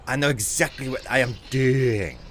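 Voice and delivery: lightly voiced boy genius accent; a hint of Dexter's clipped accent. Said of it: "let's see how good I can get at it".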